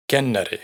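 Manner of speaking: Kennari stressed on the first syllable, KEN-nari; Icelandic word demo. Shown as a demonstration. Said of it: "el acento siempre lo lleva la primera sílaba". (Kennari con el acento en la primera sílaba, KEN-nari)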